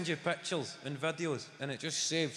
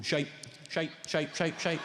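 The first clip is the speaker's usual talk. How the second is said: inner voice. Retold or imitated. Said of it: "that voice in there".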